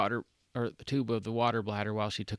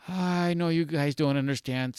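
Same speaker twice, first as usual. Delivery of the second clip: lightly voiced Heather; 6 semitones higher, 5 dB louder than usual. Heather loosening her hair.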